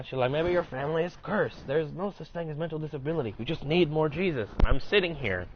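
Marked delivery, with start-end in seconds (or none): 0.3-4.5 put-on higher-pitched Puerto Rican accent, preachy; the devout coworker in a Puerto Rican accent, higher. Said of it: "very thick Puerto Rican accent".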